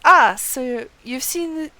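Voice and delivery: a hint of a proud warrior, partly slowed; reading as Haman. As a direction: read the warrior's lines with a touch of pride. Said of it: "Haman says".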